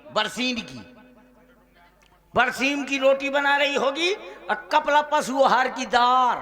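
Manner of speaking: ordinary delivery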